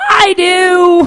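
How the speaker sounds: put-on very high, drawn-out child yelling voice. Speaker retells their five-year-old nephew heckling a joke, retelling a heckler's yell. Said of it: "And he yelled".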